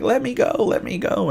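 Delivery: high, pleading cry of a struggling captive; mock plea to be let go, pitched high. Tied-up noblewoman begging her captor, high mock plea.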